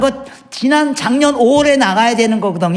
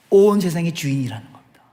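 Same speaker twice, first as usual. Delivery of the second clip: whispered; 7 semitones lower than usual. Acted. Whispered climax of sermon point.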